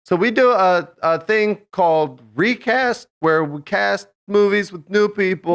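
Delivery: a hint of a sexy announcer voice; lightly put-on seductive host. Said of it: "I was trying to do a sexy voice".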